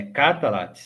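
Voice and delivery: Catalat in three beats, A sounded after L; Catalat with full vowel. Shown as a demonstration. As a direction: open the L of Catalat into a clear A. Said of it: "se você quiser pronunciar".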